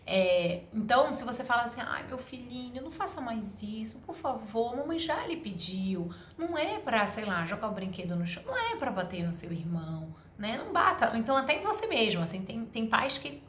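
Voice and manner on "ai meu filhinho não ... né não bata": mock the pushover parent who begs instead of correcting; pleading mother. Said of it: "com uma voz que tá quase pedindo desculpa ou implorando".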